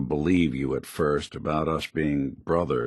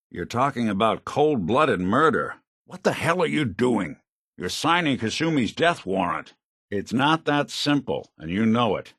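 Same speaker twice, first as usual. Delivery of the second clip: raised-pitch moral objection; heated protest; 4 semitones higher than usual. Acted. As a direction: argue urgently against the killing. Arguing against a killing.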